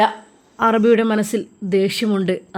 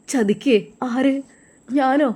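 shocked disbelief; 4 semitones higher, slower than usual. Acted. Ajmal accused of betrayal.

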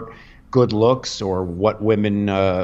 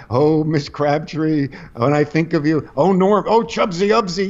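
a hint of a lovesick boy; lightly voiced little rascal; 4 semitones higher than usual. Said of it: "become a little rascal".

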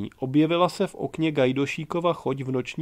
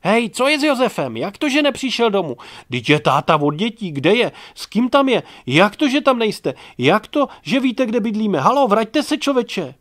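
much higher, much louder frantic shouting; shouting after him; 8 semitones higher, 7 dB louder than usual. A narrator's reading. Wife shouting after Čmelda from the house, frantic yelling. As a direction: yell after the man walking away. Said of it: "pokřik".

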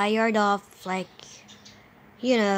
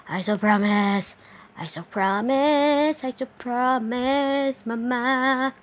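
higher singsong; 4 semitones higher, 4 dB louder than usual. Shown as a demonstration. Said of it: "repeated in singsong".

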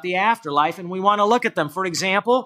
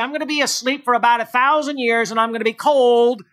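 higher, mock-earnest voicing of the absurd claim; mocking false quote; 4 semitones higher than usual. Pastor to the congregation, mocking the soul-sleep reading higher. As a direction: ham up the soul-sleep view to ridicule it. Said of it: "are you really stretching interpretation".

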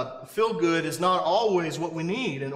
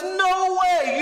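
emphatic Paul; 11 semitones higher, 4 dB louder than usual. Retold or imitated. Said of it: "Paul says".

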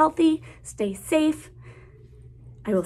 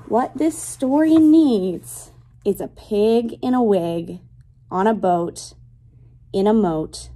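lilting picture-book read-aloud; reading to children; slower than usual. Acted. Teacher reading a rhyming book to her class, lilting read-aloud. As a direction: read the rhyme to little kids, savoring each line.

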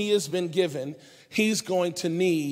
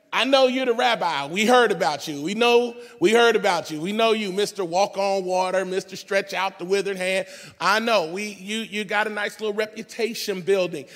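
indignant rant. Retold or imitated. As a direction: play the offended fisherman defending his turf. Simon rants at Jesus.

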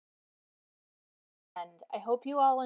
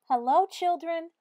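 higher, sweet, singsong greeting; 7 semitones higher, 5 dB louder than usual. A narrator's reading. Teacher greeting her class, sweet and higher. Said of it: "in a sweet voice".

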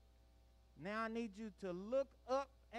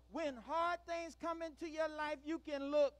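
slightly raised, prompting voice; a bit louder; 6 semitones higher than usual. Shown as a demonstration. Leader prompting children to answer louder, a bit louder. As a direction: lift the volume a little for the response. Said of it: "a little bit louder".

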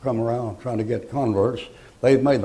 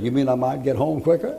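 a laughing question, rising at the end on quicker; amused quote; 2 semitones higher than usual. Retold or imitated. Inmate delighted at the thought of dying, laughing. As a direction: chuckle through You mean I might get home quicker. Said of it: "And he said".

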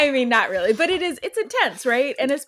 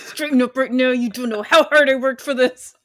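whisper yelling. Retold or imitated. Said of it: "like, whisper yell".

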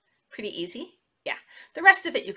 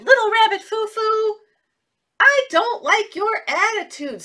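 high, loud scolding fairy voice; stern fairy; 10 semitones higher, 4 dB louder than usual. Acted. Good fairy scolding Little Rabbit Foo Foo, in a high stern voice. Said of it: "and she said".

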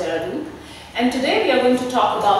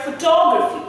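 "photography" stressed on the syllable just before "graphy"; teacher demonstrating "photography" with weight on its second syllable; 4 semitones higher than usual. Shown as a demonstration. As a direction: punch the "tog" in "photography". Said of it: "I am stressing the one which is just before graphy".

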